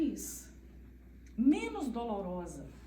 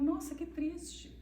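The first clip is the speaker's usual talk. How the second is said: "Nossa, que triste" in the same flat tune, slowly; flat monotone; 3 semitones higher, 3 dB quieter, slower than usual. Shown as a demonstration. Mother showing sad news gets the same flat tone, monotone. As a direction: drag "Nossa, que triste" out level and even. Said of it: "Com o mesmo tom, eu falo".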